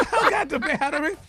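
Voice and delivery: high, loud comic protest; worked-up mock comeback; exasperated answer. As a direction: yell it back, fed up with the question. Acted exasperated answer to churchgoers.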